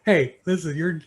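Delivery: loud, high, half-laughing mock protest; playing up his own outrage with a laugh; mock indignant outburst. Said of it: "I was like".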